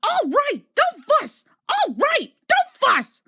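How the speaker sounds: very high, loud squeaky grumble; grumbling trucks. A narrator's reading. Silly trucks grumbling back at Thomas, squeaky and cross. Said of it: "grumbled the trucks".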